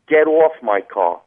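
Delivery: showing how New Jersey really says it, New Jersey accent. Shown as a demonstration. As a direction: bark it out slow like a real New Jersey guy, New Jersey accent. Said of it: "In New Jersey, it would be a little bit more like".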